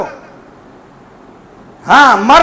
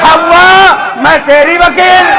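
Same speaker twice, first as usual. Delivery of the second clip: voice from behind the veil; 3 semitones higher, slower than usual. Acted. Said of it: "پردے سے پردہ دار کی آواز آئی".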